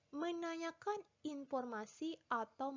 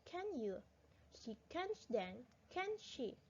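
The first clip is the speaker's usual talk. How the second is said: reading aloud. Shown as a demonstration. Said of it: "I will read".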